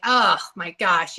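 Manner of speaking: slow, drawn-out mock exasperation; mild retold exasperation. Former believer recalling anger at religion, mildly exasperated. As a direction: act fed up, dragging it out. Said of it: "I was really mad at it".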